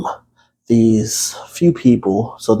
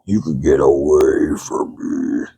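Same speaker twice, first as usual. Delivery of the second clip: recoiling; 8 semitones lower than usual. Retold or imitated. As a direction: back away from the name. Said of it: "I'm like".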